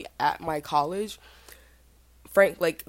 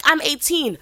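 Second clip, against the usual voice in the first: high, loud mock squeal; excited freshman; 10 semitones higher, 7 dB louder than usual. Freshman telling older girls her age, high excited squeal. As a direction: announce it like a thrilled young freshman. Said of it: "She's like".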